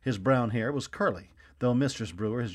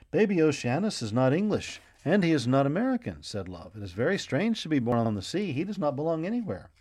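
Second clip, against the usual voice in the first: lightly voiced child; 4 semitones higher than usual. Child Love muses aloud.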